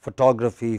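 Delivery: "photography" with the stress on TOG; stress shift. Shown as a demonstration. Teacher showing how stress moves between related words, stress shift. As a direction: stress the second syllable of "photography". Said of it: "where is the stress".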